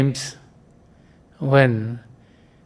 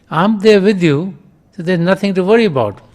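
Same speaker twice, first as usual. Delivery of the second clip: raised call, higher and louder, quick at the end; calling back; 5 semitones higher, 4 dB louder than usual. Retold or imitated. Father calls back to his scared son, raised. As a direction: reassure the boy from the other room. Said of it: "he called back".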